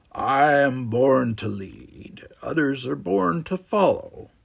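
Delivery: slow, grand self-important declaration; pompous proclamation. Acted. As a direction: proclaim it like a born leader. Vanden's grand motto.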